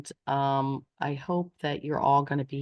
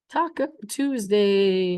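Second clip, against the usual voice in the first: playful; 3 dB louder, slower than usual. Acted. Teacher announcing favorite day.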